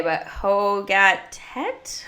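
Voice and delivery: slow, unsure try at the Dutch word "Hogatet", every syllable stretched; attempted Dutch. Shown as a demonstration. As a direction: sound out "Hogatet" carefully, like a first-timer guessing the Dutch. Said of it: "That's my attempted Dutch".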